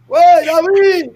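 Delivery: stretched high call to a friend; loud call. Real, not acted. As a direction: yell his name slowly across the room. Calling out to David.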